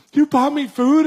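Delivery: high, loud astonished cry; amazed, grateful disbelief. Retold or imitated. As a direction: she can't believe someone fed her. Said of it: "She's like".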